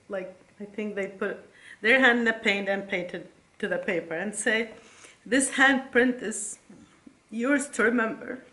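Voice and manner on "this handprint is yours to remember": fighting back tears on the first try; choked up. Real, not acted. Mother reading her son's poem, choking up. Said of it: "always bring me to tears".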